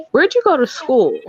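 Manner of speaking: imitated white stranger. White stranger quizzing her on school, mock inquisitive. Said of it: "new white people, they're always like".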